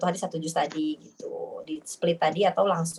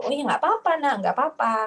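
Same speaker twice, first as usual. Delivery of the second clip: soothing mother; 7 semitones higher than usual. Retold or imitated. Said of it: "kata Bunda".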